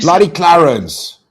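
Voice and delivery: loud, drawn-out cheer of the name; excited shoutout. Real, not acted. Streamer greeting a donor with a loud, drawn-out cheer. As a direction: stretch out Bloody Clarence like a big hype call.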